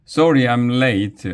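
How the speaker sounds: high, loud announcement; announcing. A narrator's reading. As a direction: announce your arrival to the room. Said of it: "announced Missus Rupee".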